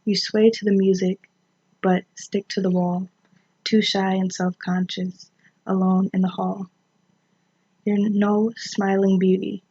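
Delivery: measured, even poem recital; poetry read aloud with deliberate pauses. Acted. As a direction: read the verse line by line, pausing at each break.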